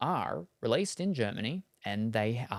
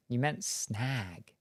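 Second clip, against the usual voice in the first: slow realization; much slower than usual. Real, not acted.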